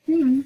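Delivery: considered doubting hmm; thoughtful hmm. Acted. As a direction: hum your polite doubt. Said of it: "a very thoughtful pause".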